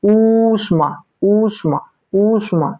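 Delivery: ऊष्मा with a drawn-out ऊ; long oo demo. Shown as a demonstration. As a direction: lengthen the ऊ in ऊष्मा. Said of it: "उष्मा में देखिए".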